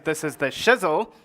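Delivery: "shizzle" stressed with a swooping rise; lightly imitated rapper slang on "shizzle"; in the style of a rapper. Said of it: "who actually pronounces".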